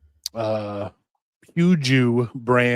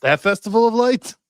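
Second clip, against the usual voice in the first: high, puzzled question; unsure guess, pitched up; surprised question; 9 semitones higher, 7 dB louder than usual. Real, not acted.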